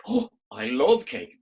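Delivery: put-on slow, drawn-out delighted girl; a hint of a swooning girl; lightly voiced girl. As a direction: sigh like a girl who loves cake. Girl character speaks.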